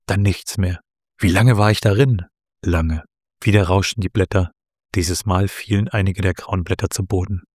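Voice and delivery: measured storytelling with lightly voiced dialogue; story narration. A narrator's reading. Author reads Luna's meeting at the tree, story narration. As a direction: read the tale aloud, lifting the characters' questions.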